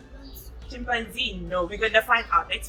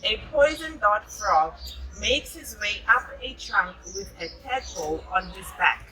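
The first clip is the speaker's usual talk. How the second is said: put-on gentle storybook narration for a child; reading to children. A narrator's reading. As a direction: read it like a bedtime picture book. Reading picture book to child.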